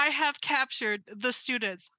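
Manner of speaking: slow gloating robot villain. Acted. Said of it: "and then you stopped".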